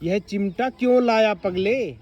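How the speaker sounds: mild wonder, drawn out; surprised. Shown as a demonstration. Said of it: "हैरानी से ये बात बोली गई है".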